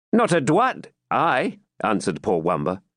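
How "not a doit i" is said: high, impudent fool's voice; cheeky jester. Acted. Captive jester mocking the baron, high cheeky voice. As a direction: toss off the quip like a jester.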